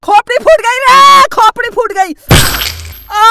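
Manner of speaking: high howl of pain. Acted. Boy howling after headbutting the wall. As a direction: cry out that the head is cracked.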